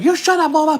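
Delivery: high, loud bossy dog voice; voicing the dog. Voicing Molly telling off the pit bull: high loud bossy. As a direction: snap at the other dog as a tiny bossy pup. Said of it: "Just like".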